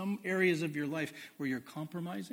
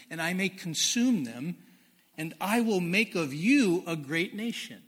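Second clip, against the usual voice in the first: scripture reading; 4 dB louder than usual. Acted. Preacher reading God's rebuke of Israel, loud solemn proclamation. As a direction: read it like God's own indictment.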